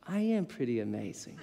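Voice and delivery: low, soft, self-satisfied; smug self-praise. Retold or imitated. Worker inwardly boasting after a compliment, low and smug. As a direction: savour it like a proud boast. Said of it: "I start to think".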